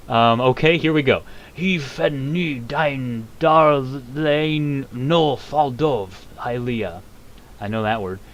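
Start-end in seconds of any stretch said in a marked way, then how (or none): 1.5-7.0 slow, high, drawn-out dragon speech; Alduin in dragon tongue. Acted. The World Eater speaking dragon tongue, slow and high. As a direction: intone each dragon word slowly. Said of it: "I do a better Hermaeus Mora than I do Alduin".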